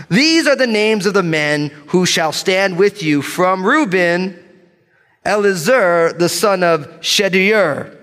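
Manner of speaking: confident scripture roll call, last syllables leaned on; bold reading. Real, not acted. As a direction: read the names boldly, like you mean it. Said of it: "gonna read these names with boldness".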